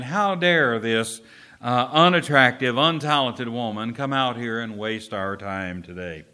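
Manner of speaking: loud, affronted mock indignation; eye-rolling scorn. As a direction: voice the audience's scornful disbelief loudly. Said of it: "in that eye roll, they were saying".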